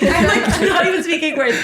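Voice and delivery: giggling through words; laughing. Real, not acted. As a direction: laugh while you say it. Laughing at herself.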